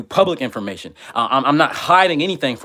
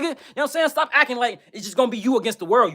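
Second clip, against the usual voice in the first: laughing mid-rant; 10 semitones higher, faster than usual. Real, not acted.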